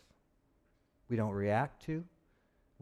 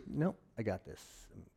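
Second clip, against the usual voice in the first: much softer, tight forced calm; 6 semitones lower, 10 dB quieter than usual. Pretend. Pastor playing someone pretending to be calm, forced soft calm. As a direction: fake calm through held-in anger. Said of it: "It's like".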